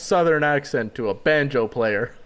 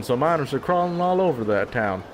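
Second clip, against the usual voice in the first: put-on southern accent. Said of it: "I had to stay in that shitty accent".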